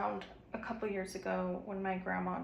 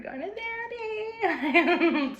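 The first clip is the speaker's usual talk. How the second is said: teary laugh, louder; laughing through tears; 12 semitones higher, 9 dB louder, much slower than usual. Real, not acted. Mother laughing through tears after telling her breakdown. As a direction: laugh it off while still shaken.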